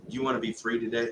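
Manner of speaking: soft, restrained question; gentle offer. Retold or imitated. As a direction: retell a quiet, careful invitation. Gently offering prayer to troubled man.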